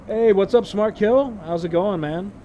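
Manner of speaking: fake-friendly mom greeting; passive-aggressive mom voice. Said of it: "reread his lines in passive-aggressive mom voice".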